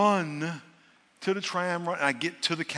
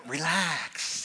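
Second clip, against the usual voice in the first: soothing wife; 3 dB quieter than usual. Retold or imitated. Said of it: "could hear my wife telling me".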